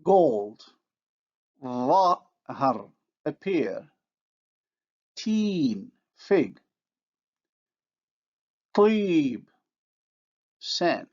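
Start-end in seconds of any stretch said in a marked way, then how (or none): 1.6-2.9 Dhahar with a backed vowel; emphatic dh, back vowel; Arabic emphasis demo. Shown as a demonstration. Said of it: "look at the examples". 5.1-5.9 put-on Teen with emphatic t and backed vowel; Arabic emphasis demo. Shown as a demonstration. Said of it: "look at the examples". 8.7-9.4 Tib with emphatic t and backed vowel; Arabic emphasis demo. Shown as a demonstration. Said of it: "look at the examples".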